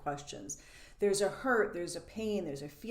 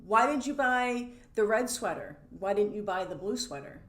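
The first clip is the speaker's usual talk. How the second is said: mock-accusing why, pitched up and louder; judging question; 3 semitones higher, 5 dB louder than usual. Partner questioning the sweater choice, judging. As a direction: needle them about their choice.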